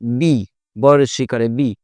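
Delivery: "বি" said as b plus a long ee; teacherly sounding-out of "বি"; letter pronunciation demo. Shown as a demonstration. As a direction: spell out "বি" as ব with long ee. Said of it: "আসলে এরম টাইপের উচ্চারণ করতে হয়".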